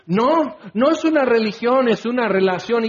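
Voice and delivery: mock defensive excuse. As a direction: parody a believer dodging the charge. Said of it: "Y ahí empiezas con todos tus desvaríos y excusas".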